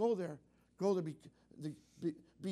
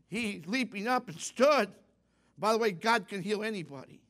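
emphatic preaching; 8 dB louder than usual. Real, not acted. Preacher proclaiming the healing to his congregation, emphatic preaching. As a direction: preach it out with force.

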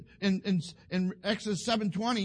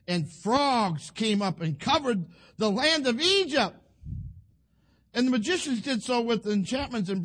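dramatic scripture reading; 4 semitones higher, 5 dB louder than usual. Acted. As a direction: draw out the plague verse for the congregation.

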